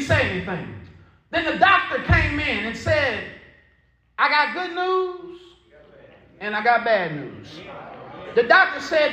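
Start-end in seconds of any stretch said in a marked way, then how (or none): 4.2-5.4 raised, drawn-out doctor's announcement; good-news announcement. Retold or imitated. 6.4-7.6 low, subdued doctor's announcement; bad-news announcement.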